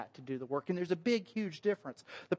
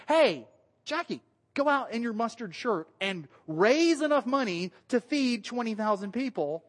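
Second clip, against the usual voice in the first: mock calling out; 4 semitones higher, 3 dB louder than usual. Preacher acting out Jesus sending Jackie fundraising, mock calling out. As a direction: call out a mock order, raised pitch. Imagined order called out to Jackie.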